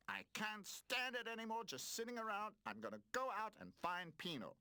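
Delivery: loud, high determined outburst; fed up. A narrator's reading. Roller deciding to search for Pino, loud and determined. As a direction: burst out, ready to act. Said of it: "I've had it".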